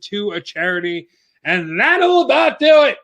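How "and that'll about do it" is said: breathless, voice giving out; winded sign-off; out of breath. Real, not acted. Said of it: "I'm out of breath".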